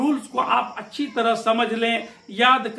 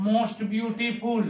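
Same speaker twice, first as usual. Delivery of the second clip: very slow, drawn-out teacher's answer; slow model answer; 3 dB quieter, much slower than usual. Shown as a demonstration. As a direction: stretch more beautiful out so pupils can write it. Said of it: "और SD क्या हो जाएगा?".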